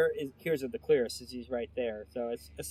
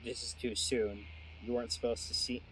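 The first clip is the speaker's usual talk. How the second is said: booming Kraken voice; 5 semitones lower, 7 dB quieter than usual. Acted. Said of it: "says the Kraken in a booming voice".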